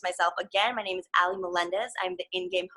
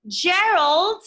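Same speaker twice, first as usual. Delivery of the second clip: curious Piggy; 4 semitones higher, 3 dB louder, slower than usual. Acted. Piggy asks Gerald.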